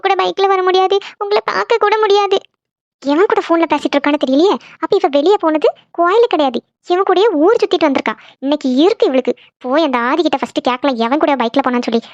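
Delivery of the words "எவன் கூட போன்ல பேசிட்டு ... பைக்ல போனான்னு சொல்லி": lightly voiced mother, suspicion turning to anger; a hint of a stern mother, half to herself; suspicious mother plotting. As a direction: mum realising her daughter lied, planning to confront her. Mother overhears, grows angry.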